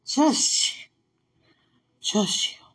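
hushed breathy calm-down; whispered self-calming. Real, not acted. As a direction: whisper it to yourself.

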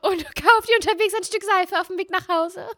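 very high, prissy scolding voice; prim scolding lady. Pretend. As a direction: scold like a fussy old lady. Mock prude scolding.

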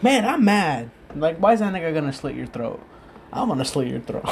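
high, loud mock-indignant friend; jealous friend. Friend jokingly complaining to him, mock-indignant and loud.

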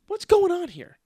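high, loud mock outrage; mock yell of disbelief; yelled question. Golf partner yelling at slow group.

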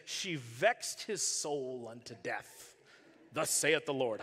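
put-on slow, solemn old-English preacher voice; King James reading. Shown as a demonstration. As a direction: intone it like an old Bible. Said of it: "I love how the King James Version says it".

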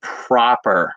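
slow, low posh RP accent; drawn-out, proper British RP. Shown as a demonstration. Actor showing his British accent, slow posh RP. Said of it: "the way I do it, it's very posh".

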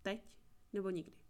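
ordinary delivery

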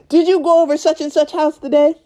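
high-pitched interrogating mother, imitated; pissed-off mom. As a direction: grill the kid like an angry mom. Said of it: "she's a pissed off mom".

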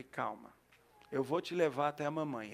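put-on soft reassurance to a scared kid; gentle soothing. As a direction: hush the child, tell him it's all right. Soothing a lost crying child.

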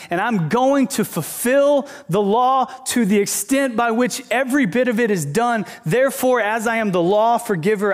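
high-pitched preaching climax, easing toward the end; emphatic declaration. Retold or imitated. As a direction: proclaim it as Jesus, in a lightly acted role. Preacher voices Jesus, building to climax.

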